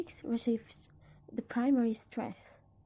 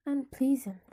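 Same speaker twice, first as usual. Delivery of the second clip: "unpleasant" with PLEA stressed, "un" left light; stress on the stem; 2 semitones higher, 4 dB louder than usual. Shown as a demonstration. Teacher giving a prefix example, PLEA stressed in "unpleasant". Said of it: "stressed as if the affix were not there".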